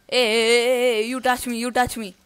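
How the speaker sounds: loud, high hey hey hey; mock outraged shout. Real, not acted. Gamer yelling at the opponent who broke their truce, mock outrage. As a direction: yell it like a betrayed friend.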